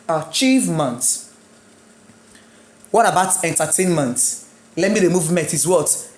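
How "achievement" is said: "achievement" with CHIEVE prominent; stress on chieve. Shown as a demonstration. Teacher shows stress stays with ment added, "achievement" stressed on chieve. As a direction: say "achievement" leaning on the middle syllable, chieve. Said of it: "the stress will still be on chieve".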